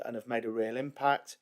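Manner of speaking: ordinary talk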